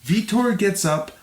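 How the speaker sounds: measured, clearly articulated read; fight recap narration. A narrator's reading. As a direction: narrate the bout like a documentary. Reads scripted fight recap.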